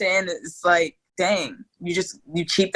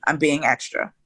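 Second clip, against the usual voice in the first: meek polite reply; 4 semitones lower than usual. Retold or imitated. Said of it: "But I don't, I don't talk that way".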